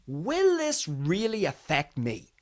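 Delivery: "Will this really affect me" drawn out slowly; pondered question. Acted. Reader to himself, slow deliberate self-questioning. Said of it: "the first thing I think is".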